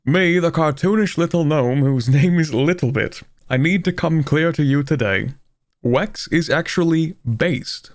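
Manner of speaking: slow, grand medieval herald; medieval announcer voice. Pretend. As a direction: proclaim it like a royal town crier. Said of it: "In the medieval announcer voice?".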